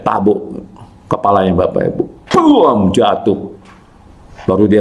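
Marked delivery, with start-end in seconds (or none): 2.3-2.9 higher-pitched "buam" that falls away; imitated thud. Preacher showing the struck man dropping, imitated thud. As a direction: voice the crash of a falling body.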